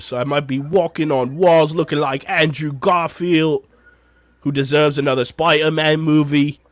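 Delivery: lightly put-on Cockney London podcast host; playful mock Cockney London intro; Cockney London accent. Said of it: "do the intro with a bit of a Cockney London accent".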